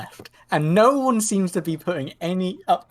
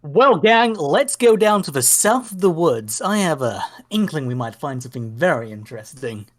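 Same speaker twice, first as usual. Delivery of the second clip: confident rallying call; rally the group like a hero; heroic leader. Acted. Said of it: "hearing you say it like that".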